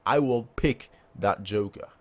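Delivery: slow, drawn-out menacing villain line; drawn-out sinister villain. Acted. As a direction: let each word land slowly and darkly. Repeats villain line slower.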